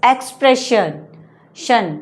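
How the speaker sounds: एक्सप्रेशन with a hushing "shun" ending. Shown as a demonstration. Teacher contrasts endings for class, शन spoken "shun". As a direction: say एक्सप्रेशन, then isolate शन as "shun". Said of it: "कहीं शन आएगा".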